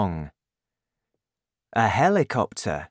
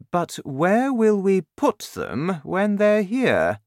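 worried officer; 9 semitones higher than usual. Acted. Air force head worried.

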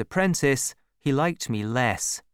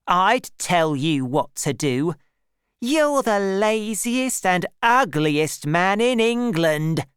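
much higher, slow, louder insult; growing angry; 6 semitones higher, 4 dB louder than usual. A narrator's reading. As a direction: spit out the insult in a rage. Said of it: "She was getting very angry now".

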